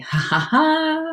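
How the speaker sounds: high, drawn-out laugh; real amused laughter; delighted laugh. Real, not acted. Amused by reader's message.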